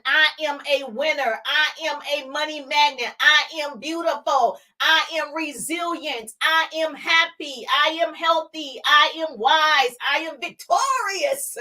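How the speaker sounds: lightly lifted, deliberate self-affirmation; confident affirmations. Shown as a demonstration. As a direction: claim each I am like it's already true. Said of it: "Start off with "I am".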